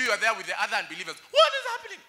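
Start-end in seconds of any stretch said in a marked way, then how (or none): 1.3-2.0 very high, loud shriek of bewilderment; mock panic. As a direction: squeal it like someone caught totally unprepared. Acts unbelievers panicking at final trumpet.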